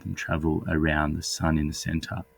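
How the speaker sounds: hoarse from a cold, husky; a bit husky, under the weather. Real, not acted. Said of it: "I apologize for my husky voice".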